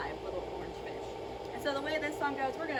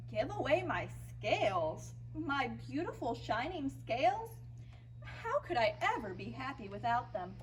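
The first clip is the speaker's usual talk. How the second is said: mildly acted dismay with swooping pitch; dismayed protest. Rainbow Fish is asked to give away scales, dismayed protest. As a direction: stretch the words out in disbelief.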